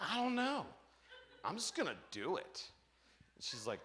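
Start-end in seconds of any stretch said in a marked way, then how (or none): 0.0-2.7 nervous laughing. Retold or imitated. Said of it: "I'm like".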